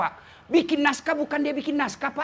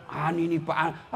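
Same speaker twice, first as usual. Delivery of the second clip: fawning aide; 9 semitones lower, 5 dB quieter, slower than usual. Retold or imitated. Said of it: "Dia gosok dia punya bupatinya".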